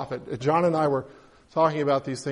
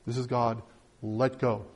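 a hint of a lower, soft divine voice; calm voice of God; 6 semitones lower, 7 dB quieter than usual. A narrator's reading. God calmly telling the hanging man to let go, lightly voiced lower. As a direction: say it low and matter-of-fact, lightly voiced.

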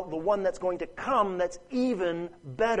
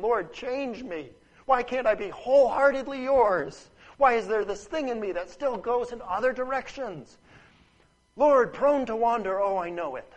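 a believer on his knees in tears, begging God to change him; pleading prayer; 5 semitones higher, 5 dB louder than usual. Acted. A struggling believer prays through tears, raised and pleading. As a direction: cry out to the Lord, raised and pleading.

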